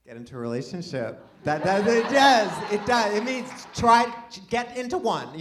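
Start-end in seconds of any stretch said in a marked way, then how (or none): 1.4-5.4 louder, higher insisting it does; loud insistence. Real, not acted. Comic insists to the crowd that spring means dating. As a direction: push the claim hard.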